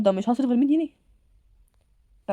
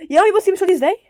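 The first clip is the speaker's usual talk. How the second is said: louder, higher whine; complaining loudly; 8 semitones higher, 6 dB louder than usual. Acted. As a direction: protest to mom. البنت تشتكي بصوت عالي. (بنت بتشتكي لأمها بصوت عالي)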